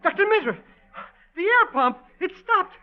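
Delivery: high, rising panic; panicked. Acted. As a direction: panic as the air stops. Pump stops, panic.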